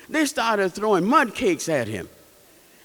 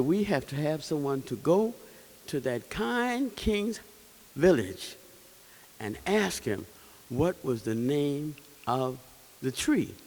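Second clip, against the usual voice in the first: lion voice; 6 semitones lower, 6 dB quieter than usual. Acted. Lion calls a meeting, low voice.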